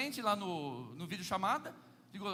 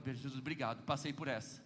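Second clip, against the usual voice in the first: much lower and softer, sighing thanks; relieved murmur; 10 semitones lower, 5 dB quieter than usual. Retold or imitated. Husband relieved his wife is fine, much lower and softer. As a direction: breathe your thanks quietly.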